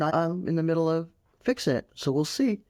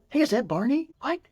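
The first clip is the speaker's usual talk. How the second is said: higher, bright fake surprise to distract a child; mock excitement; 10 semitones higher than usual. Shown as a demonstration. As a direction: sell the distraction with a gasp of wonder. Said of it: "Or distract 'em".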